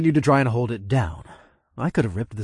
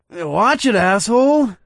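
louder angry snap; angry hiss; 10 semitones higher, 8 dB louder, slower than usual. A narrator's reading. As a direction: snap at him. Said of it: "a familiar voice hissed".

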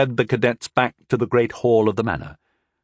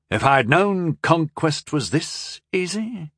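grinning; 6 semitones higher, slower than usual. A narrator's reading. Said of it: "Joffard grinned".

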